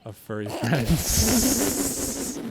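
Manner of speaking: chuckling through the words; laughing mid-phrase; laughing while talking. Real, not acted. Joking about helping furry friends.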